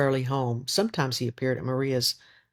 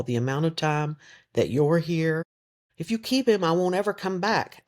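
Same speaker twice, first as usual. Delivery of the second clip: threatening; 5 semitones higher than usual. Acted. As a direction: lay down a hard ultimatum. Yonel threatening to leave Maria.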